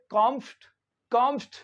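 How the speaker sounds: कॉम्फ्ट as one syllable "KOMFT"; कॉम्फ्ट with no vowel between F and T; syllable demo. Shown as a demonstration. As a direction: squeeze कॉम्फ्ट into one beat. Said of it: "इसको पढ़ते".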